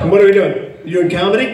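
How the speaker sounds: lightly voiced impression of a colleague; a hint of someone else's voice; Jensen. To the audience mid-panel, a light colleague impression. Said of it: "my imitation of Jensen".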